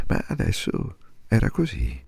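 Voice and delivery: soft unvoiced whisper; hushed, resigned whisper. A narrator's reading. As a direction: breathe it out as a hushed conclusion. Repeated line, now whispered.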